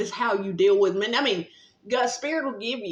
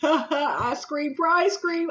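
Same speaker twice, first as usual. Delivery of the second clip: slow, chuckling words; giggly and drawn out; laughing through it; 8 semitones higher, 3 dB louder, much slower than usual. Real, not acted. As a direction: laugh the line out slowly. Laughing while eating ice cream.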